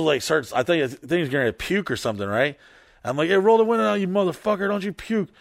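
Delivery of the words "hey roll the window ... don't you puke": high-pitched urgent scolding; mock angry order. Retelling warning a drunk friend before he pukes, angry urgency. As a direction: order him sharply, pitched well up.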